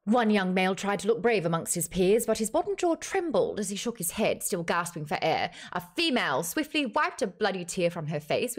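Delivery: dramatic novel narration, lively pitch; audiobook narrator. Acted. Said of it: "using the narrator for that one".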